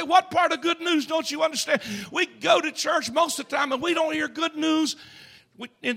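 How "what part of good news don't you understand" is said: loud, high call to the neighbor. Pretend. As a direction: shout it across the pew, teasing. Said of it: "touch your neighbor, say".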